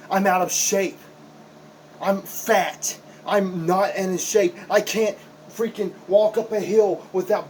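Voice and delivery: rising voice of a wrestler hating his own body; heated self-loathing rant. Acted.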